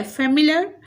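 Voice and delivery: teacher demonstrating stress inside फेमिलियर; syllable stress demo. Shown as a demonstration. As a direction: lift and stress "मिल" in फेमिलियर. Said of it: "आईएल पे stress है".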